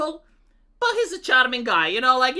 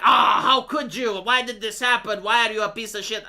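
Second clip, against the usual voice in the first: mock outraged neighbor. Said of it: "I'm not going to be like".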